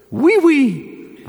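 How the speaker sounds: high, laughing French oui, oui; playful high French yes. Shown as a demonstration. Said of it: "The French".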